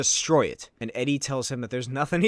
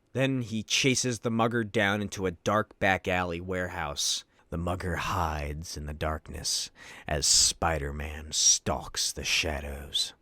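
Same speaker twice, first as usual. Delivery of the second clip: much lower, soft, menacing storyteller voice; deep brooding trailer-narrator rumble; ominous narration; 11 semitones lower, 6 dB quieter than usual. A narrator's reading. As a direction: narrate the dark alley like a noir trailer. Dark alley chase narrated gravely.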